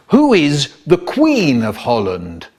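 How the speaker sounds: slow, drawn-out official inquiry; inspector's question. Acted. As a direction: put the question slowly, like an inspector. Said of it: "an inspector asked".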